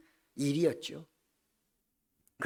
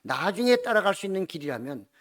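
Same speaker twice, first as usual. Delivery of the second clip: protesting; 3 semitones higher than usual. Retold or imitated. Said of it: "그가 항의하는 모습을".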